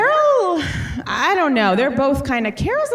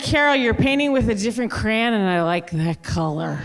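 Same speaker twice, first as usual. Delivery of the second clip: imitating Luann; 2 semitones lower than usual. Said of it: "I'm doing Luann".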